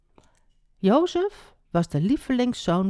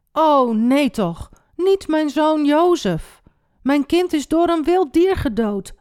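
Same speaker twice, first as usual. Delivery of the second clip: distraught cry; 9 semitones higher, 5 dB louder than usual. A narrator's reading. Jacob believes his son is dead, crying out distraught. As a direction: cry out in acted anguish. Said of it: "riep Jacob".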